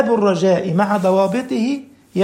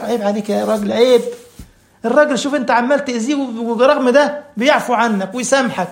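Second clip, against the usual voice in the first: chiding conscience; 3 semitones higher than usual. Acted. The conscience reproaches a man who wrongs his forgiving friend, chiding. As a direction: voice a reproachful inner self, rising in pitch. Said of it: "تجد النفس كده في معه تقول لك".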